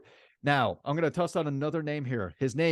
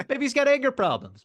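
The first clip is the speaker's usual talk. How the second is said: laughing; 9 semitones higher, 4 dB louder than usual. Real, not acted. Laughing at the wall punch.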